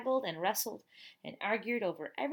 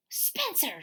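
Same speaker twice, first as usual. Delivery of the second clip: louder, higher mock scream; screaming mother; 8 semitones higher, 4 dB louder than usual. A narrator's reading. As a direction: yell the boy's name upstairs. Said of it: "she screamed".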